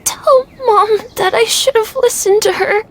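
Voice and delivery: put-on a frightened sick boy begging through tears; tearful plea. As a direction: voice catching, close to tears. Feverish boy fears dying.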